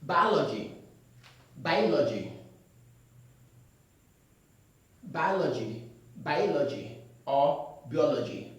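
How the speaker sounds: "Biology" said as ba-lo-ji or bai-o-lo-ji, wrong; "Biology" wrongly as ba-lo-ji. Shown as a demonstration. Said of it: "We don't have any word like that".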